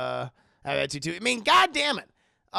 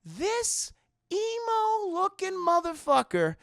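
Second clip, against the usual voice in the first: high, slow, sneering villain voice that breaks into a shout; villain Mister Spuds; 11 semitones higher, slower than usual. Retold or imitated. Streamer voicing Mister Spuds sneering at his rival, high mock villain shout. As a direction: ham it up as a cartoon villain. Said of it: "And Mister Spuds is like".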